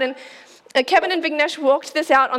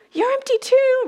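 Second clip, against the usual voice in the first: deflated statement; 11 semitones higher than usual. Shown as a demonstration.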